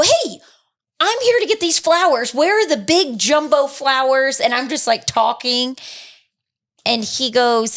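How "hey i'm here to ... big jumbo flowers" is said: bright eager asking. Retold or imitated. Retelling asking the clerk brightly.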